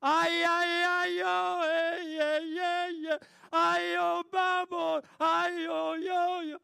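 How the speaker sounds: long, loud, high African-style wail; drawn-out keening cry from the heart. Shown as a demonstration. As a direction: wail it out in great distress. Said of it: "It's a wailing".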